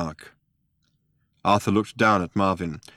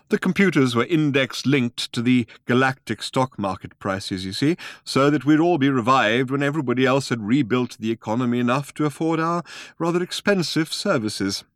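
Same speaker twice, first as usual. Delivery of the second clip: put-on old man voice; 5 semitones higher than usual.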